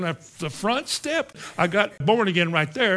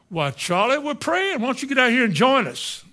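raised, high-pitched acted reply; eager invitation; 7 semitones higher, 4 dB louder than usual. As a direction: call out an invitation to join the prayer. Answering the shouting night watchman.

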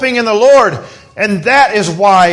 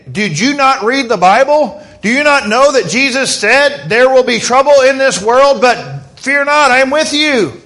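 exasperated; 5 semitones higher, 3 dB louder than usual. Retold or imitated. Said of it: "I'm thinking".

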